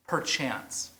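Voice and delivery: soft, drawn-out Perchance; savoured echo. Shown as a demonstration. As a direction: repeat Perchance quietly, savouring it. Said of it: "I love the word perchance".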